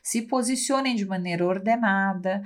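lightly voiced calm organizer while the world falls; mock calm orderly person. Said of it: "eu adoro falar assim".

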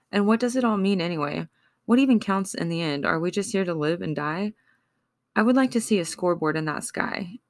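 wounded spoken-word plea to a lost lover; pleading poem. Acted. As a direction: ask each question like it hurts. Emotional poem, raised voice.

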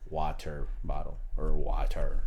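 "Water" slowed right down, low, with a crisp T; over-enunciate the t in "Water"; low, drawn-out "Water" with a hard T; mock proper water. Shown as a demonstration. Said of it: "I have not met a motherfucker to be like".

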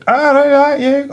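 high, slow Geordie accent attempt. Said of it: "stood there going".

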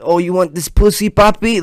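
high, breathy-free mock sultry purr; mock a porn line in a high teasing voice; mock porn talk. Mocking porn dialogue, high mock sultry voice. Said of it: "nobody's fucking like that".

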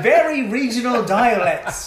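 high, loud laughing words. Real, not acted. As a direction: squeeze it out through laughter. Laughing mock commentary.

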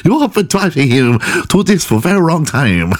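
put-on high-pitched caricature Asian accent; mock Asian accent. Fake therapist blaming the cheated-on girlfriend, mock Asian accent. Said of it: "I'm going Asian".

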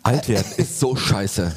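slow, theatrical lament; hammy stage actor. Shown as a demonstration. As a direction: overplay the misery like a ham actor. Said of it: "Ich hab's theatralischer gemacht".

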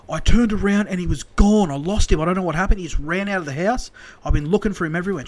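imitated flustered carer, high and urgent; panicked explanation. Carer explains losing Joe in panic.

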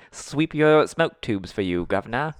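slow, drawn-out mock Aussie line; hammed-up Australian impression; mock Australian accent. Shown as a demonstration. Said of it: "practicing my Australian accent".

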